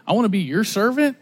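mildly puzzled echo, as a question; mock disbelief. God questioning a would-be servant, mock disbelief. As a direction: question it with mild incredulity.

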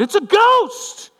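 high, loud, drawn-out terrified cry; acted shriek of alarm; yelling out. Terrified fishermen seeing Jesus on the sea, yelling out. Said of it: "they say they yell out".

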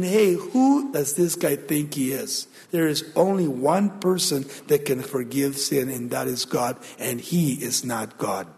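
low, softening inner grumble of a sceptic; scribes thinking. Acted. Scribes reasoning in their hearts about Jesus, low sceptical undertone. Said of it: "They were thinking".

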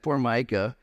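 a touch of mock pity; slightly patronizing sigh for Micah; condescending. Real, not acted. Pastor pitying Micah, mildly condescending. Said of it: "I say that condescendingly a little bit".

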